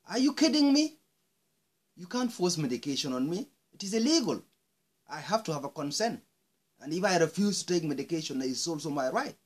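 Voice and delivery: high, loud furious disbelief; outraged shout. Real, not acted. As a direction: explode at the doctors. Outraged at forced medication.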